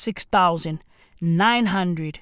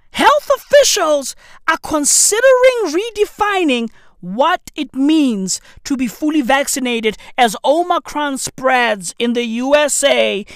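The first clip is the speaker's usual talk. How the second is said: incredulous reread; 4 semitones higher than usual. Real, not acted. Host rereads the vaccine headline to viewers, incredulous and high. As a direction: reread it like you can't believe it.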